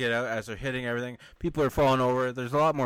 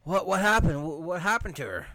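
higher, louder, startled stammer; imitating a shocked bystander, higher and louder; shocked crowd; 7 semitones higher, 4 dB louder than usual. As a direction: play the crowd gasping at the falling body. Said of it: "And everyone's like".

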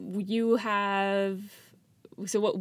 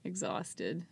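tired voice; 6 dB quieter than usual. Real, not acted. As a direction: drag the words, exhausted. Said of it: "I'm so tired".

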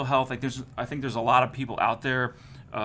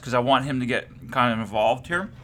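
talking through a mint; words round a mouthful; chewing while talking. Real, not acted. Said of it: "I'm chewing on a fucking cert right now".

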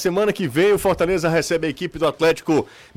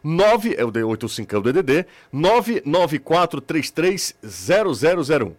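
over enunciating each digit, slowly; slow and deliberate. Shown as a demonstration. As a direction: spell the number out carefully. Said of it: "eu vou falar bem devagarinho".

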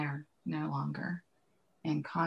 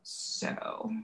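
a real, hushed whisper of thanks; whispered, heartfelt thank you; slower than usual. Real, not acted. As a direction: breathe the thanks out almost silently. Heartfelt thanks after personal story.

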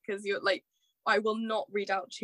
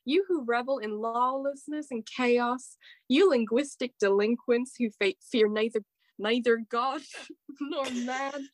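American accent. Shown as a demonstration. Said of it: "I can only do an American accent".

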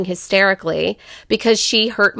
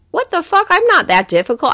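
retold outrage; 7 semitones higher than usual. Mother retelling hurt outburst.

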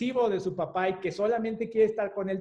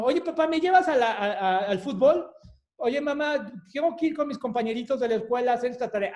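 put-on pleading child; 4 semitones higher, 3 dB louder, faster than usual. Child begging parents.

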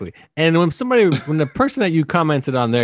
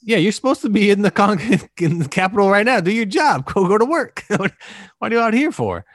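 loud, high mocking scold; scolding rant; 10 semitones higher, 5 dB louder than usual. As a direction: yell at him to get back to work. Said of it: "I'm like".

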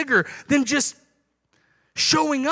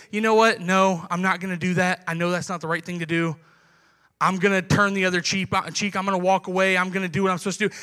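lower, measured refusal; calm resolve; 5 semitones lower, 3 dB quieter, faster than usual. Retold or imitated. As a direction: pastor voicing a believer turning the other cheek, calm and lower. Believer calmly refuses to retaliate.

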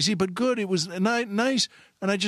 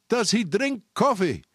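higher, slow mock call; retold yell; 5 semitones higher than usual. Storyteller replaying the store guy's last effort, mock yell. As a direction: replay the hopeful shout. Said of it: "he yelled".

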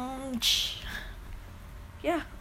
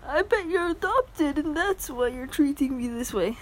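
higher mocking repeat of the mom; entitled mom voice; 5 semitones higher than usual. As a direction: quote her again, sneering. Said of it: "Sorry about the horrible accents".

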